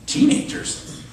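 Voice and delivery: high-pitched mock disbelief; imitated startled reluctance; incredulous. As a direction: echo the word as a dubious, squeaky question. Classmate reacts to being asked.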